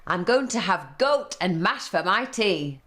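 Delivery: a sore-headed troll growling his rhyme; grumpy troll. Acted. Troll threatening the little goat, grumpy and loud.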